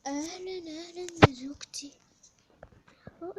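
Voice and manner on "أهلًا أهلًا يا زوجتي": big loud hello to the wife; husband booming a welcome; loud greeting. Pretend. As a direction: greet her loudly with a rise.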